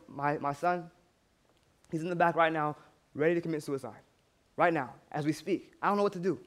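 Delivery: low, quiet retelling of a distraught mother; subdued distress. Retold or imitated. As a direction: voice her helplessness softly. Tearful mother explains son's danger.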